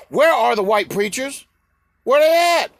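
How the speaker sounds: loud, high-pitched demand; real indignant shout; indignant calling out. Real, not acted. Demanding where the preachers are.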